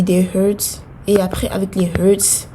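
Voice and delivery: hurts and hearts said in a light English accent. Shown as a demonstration. Gamer naming in-game items, mock English accent. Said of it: "j'enlève mon accent anglais".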